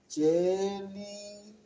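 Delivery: "jellyfish" stretched slowly as one word; slow model word for repeating; drawn-out word. Shown as a demonstration. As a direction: say "jellyfish" slowly so kids hear it whole. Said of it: "One word".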